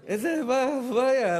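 loud, high startled outburst; startled husband. Retold or imitated. Husband shocked by the new name, loud and startled. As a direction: blurt it out in shock. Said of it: "הוא אומר".

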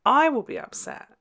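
a jump in pitch and volume on I will be upset; overly attached fan, half joking; playfully unhinged devotion; mock psychotic. Real, not acted. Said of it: "I sound psychotic".

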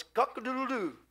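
imitated cock-a-doodle-doo; rooster crow. Preacher imitates the cock after Peter's denial, rooster crow. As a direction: crow like a rooster, lightly done.

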